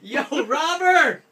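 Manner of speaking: slow loud call of robber; shouting. Shown as a demonstration. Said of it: "they always refer to the assailant as a robber".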